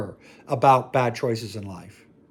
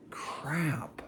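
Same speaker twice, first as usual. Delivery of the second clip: whispered curse; 12 dB quieter than usual. Acted. Realizing his mistake aloud.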